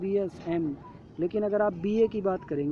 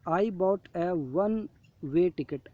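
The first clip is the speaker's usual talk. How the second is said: slow reading aloud; much slower than usual. Shown as a demonstration. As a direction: read the example very slowly, word by word. Reading example sentence. (धीरे-धीरे पढ़कर सुनाना)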